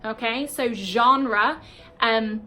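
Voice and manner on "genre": genre drawn out as ZHON-ruh; British genre. Shown as a demonstration. Teacher repeats the word for learners, slow ZHON-ruh genre. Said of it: "we pronounce it genre".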